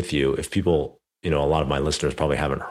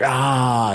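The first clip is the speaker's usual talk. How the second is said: imitated yell, much higher and louder; retold yell; 9 semitones higher, 4 dB louder than usual. Coach yelling after racing up the driveway, mock yell. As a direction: let out a short mock yelling "Ah" at the end of the run. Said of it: "he's, like, yelling".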